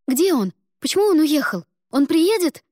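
high, loud, frantic asking; panicked questions. Acted. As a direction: demand answers in panic. Ada anxiously questions mother.

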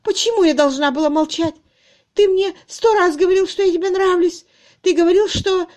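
very high, loud sobbing words; a jilted woman crying at her fiancé; weeping. A narrator's reading. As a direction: cry bitterly through the line. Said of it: "Горько заплакала она".

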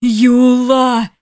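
an imp crying out over his friend; wailing shout. A narrator's reading. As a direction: wail the name in grief. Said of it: "завопил бес".

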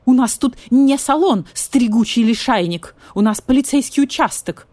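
indignant loud vulture retort. Acted. Vulture scolds pampered cat, indignant and loud. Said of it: "возмутился Гриф".

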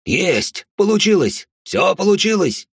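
joyful shout, high and loud; overjoyed doctor shouting the news; excited doctor. Acted. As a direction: cheer the delivery like a triumph. Doctor cheers the birth.

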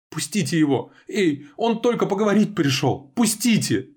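high, loud desperate cry; shouting. A narrator's reading. Gelya screaming at the guards to release him, high and loud. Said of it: "кричит Геля".

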